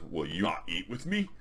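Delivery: lightly voiced barbarian, formal and measured; mildly hammed-up fantasy dinner talk; Conan's voice. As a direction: put on a hint of stately warrior. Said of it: "they're both talking like that".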